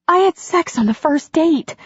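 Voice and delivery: high-pitched, astonished heroine; astonished outburst. A narrator's reading. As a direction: blurt it out high in disbelief. Heroine's astonished confession in dialogue.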